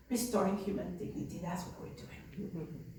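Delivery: soft, slowing, certain answer; quiet firm reply. Retold or imitated. Nun quietly answering the city official with conviction.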